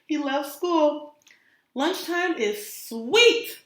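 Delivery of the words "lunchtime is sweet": slow, high excited yell. Acted. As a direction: stretch it out with glee. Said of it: "yelled Clark the Shark".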